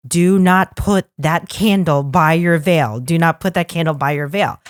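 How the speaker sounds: measured, emphatic mock warning; firmly stressed retold order; stern warning. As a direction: imitate a coordinator laying down a rule.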